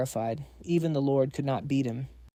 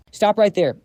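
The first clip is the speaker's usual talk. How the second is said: shouting; 6 semitones higher, 8 dB louder than usual. Acted. Monk halts them.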